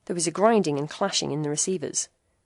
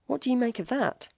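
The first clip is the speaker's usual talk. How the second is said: stammering; 7 semitones higher than usual. A narrator's reading. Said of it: "stammered Baron at last".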